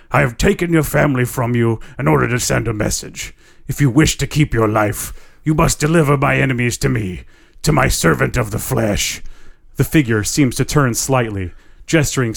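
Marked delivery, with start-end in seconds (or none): 0.1-9.2 eerie rasping spirit voice; rasping horrible voice. Acted. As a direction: rasp it out like a menacing ghost. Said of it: "a rasping, horrible voice".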